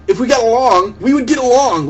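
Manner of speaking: mocking parrot. Mocking the argument as circular.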